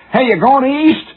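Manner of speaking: high, loud sudden call; hollering question. Retold or imitated. Pedestrian hollers to the cab driver, loud call. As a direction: shout it across the street. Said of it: "he hollers at the cab driver".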